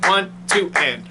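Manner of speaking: one, two, and spoken evenly on the beat; counting the rhythm aloud. Shown as a demonstration. Teacher repeats the count for the rhythm, in even beats. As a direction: tick off each beat clearly. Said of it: "quarter note, two eighth notes".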